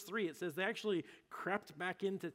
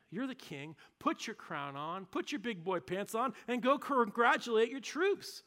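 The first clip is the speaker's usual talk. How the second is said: scolding push; 5 semitones higher, 4 dB louder than usual. Retold or imitated. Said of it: "He says".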